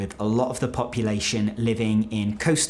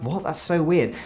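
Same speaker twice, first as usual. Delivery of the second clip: mock disbelief; 5 semitones higher than usual. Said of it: "I'm like".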